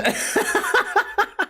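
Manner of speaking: high giggle; real laugh. Real, not acted. Laughing at own bit.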